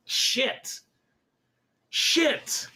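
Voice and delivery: breathy high whispered swear; whispered curse. Real, not acted. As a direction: hiss it under your breath, annoyed. Frustrated at a line he envies.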